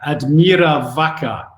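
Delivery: "Admira Wacker" said slowly and deliberately; slow, careful pronunciation. Shown as a demonstration. Guest repeats club name so nobody mishears, slowly. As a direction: draw out "Admira Wacker" word by word. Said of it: "say that really slowly".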